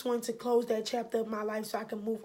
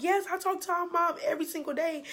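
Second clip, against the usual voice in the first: higher, quick, eager reply; eager retold answer; 5 semitones higher, faster than usual. Sister confirming she talks to their mom, eager. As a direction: rush out the happy confirmation.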